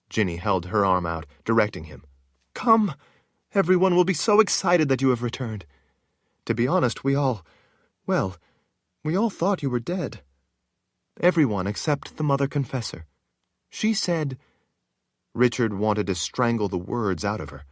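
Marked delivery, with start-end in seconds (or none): 2.5-14.4 put-on higher, light young woman's voice; eager palace woman. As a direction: chatter like exciting gossip. Narrator voices Ginny.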